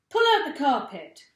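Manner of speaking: loud, high command; shouted order. A narrator's reading. Mugglewump ordering the animals, loud shout. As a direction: bark the order across the room. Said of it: "shouted Mugglewump".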